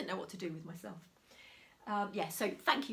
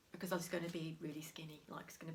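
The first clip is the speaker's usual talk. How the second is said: whisper; 3 semitones lower, 5 dB quieter, faster than usual. Real, not acted. Aside about a short scarf.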